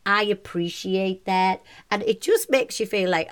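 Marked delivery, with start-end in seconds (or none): 0.1-1.6 slow, put-on American phrasing; imitated American accent. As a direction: mimic an American accent, unhurried. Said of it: "you do say in America".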